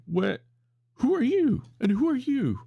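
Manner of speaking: very high, loud panicky yeti cries; freaked-out yeti. Retold or imitated. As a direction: yeti wailing to be anywhere else. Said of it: "that's the Yeti's immediate reaction".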